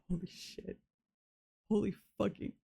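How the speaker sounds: stunned whisper; whispered awe. Real, not acted. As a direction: breathe it out in shock. Stunned by news, breathless.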